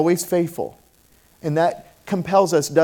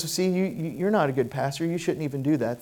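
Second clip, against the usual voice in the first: devil's voice; 5 dB quieter than usual. Retold or imitated. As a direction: whisper the lie into his ear. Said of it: "And the devil says".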